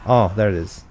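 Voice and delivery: usual speaking voice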